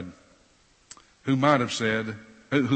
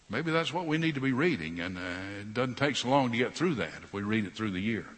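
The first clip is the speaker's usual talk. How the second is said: sarcastic; 3 dB quieter than usual. Acted. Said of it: "I'm being very sarcastic".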